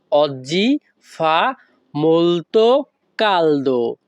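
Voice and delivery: "oggi fa molto caldo" slowly, with pauses between the words. Shown as a demonstration. Teacher repeating the Italian for learners, "oggi fa molto caldo" word by word. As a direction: break "oggi fa molto caldo" into separate slow pieces. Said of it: "তাহলে একসাথে বললে কি হয়".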